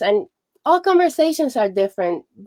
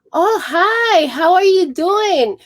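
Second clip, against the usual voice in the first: cheerful reply; 8 semitones higher than usual. Retold or imitated. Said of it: "they're like".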